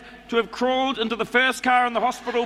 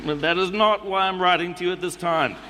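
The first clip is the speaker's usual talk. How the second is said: put-on reading a letter in a New Zealand accent; a relaxed Kiwi accent all through. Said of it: "I'm going to do it in the New Zealand accent".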